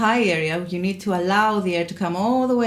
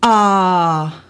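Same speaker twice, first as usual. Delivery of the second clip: pressed, loud glottal ah; glottal attack; 8 dB louder than usual. Shown as a demonstration. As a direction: slam the ah from the throat. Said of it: "we don't want that".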